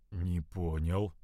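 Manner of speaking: slow, low and soft, barely out; squeezed out. A narrator's reading. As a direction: force the words out haltingly. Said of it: "выдавил из себя Янош".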